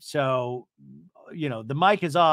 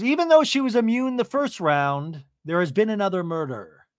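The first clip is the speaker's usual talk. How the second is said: raised, projected game-host proclamation; mock announcement; 5 semitones higher, 5 dB louder than usual. The speaker announcing another murder, mock proclamation.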